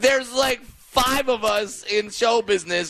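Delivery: high-pitched comic indignation; exasperated mock rebuttal.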